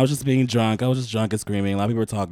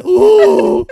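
ghostly ooh; 9 dB louder than usual. Acted. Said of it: "a ghost that sounds like this".

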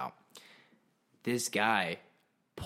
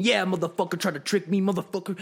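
loud, high triumphant taunting in imitation; hammed-up vengeful coworker; mock taunt; 7 semitones higher, 6 dB louder than usual. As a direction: gloat at a tricky little enemy, voice raised. Coworker taunting the bug, acted.

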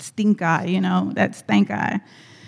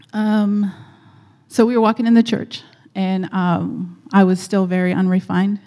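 speaking up; 4 dB louder than usual. Real, not acted. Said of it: "They need to hear you better".

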